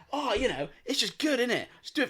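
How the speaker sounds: high-pitched, lightly mocking impression; mock breezy excuse. Mimicking a stunt man excusing himself for likes, mock breezy.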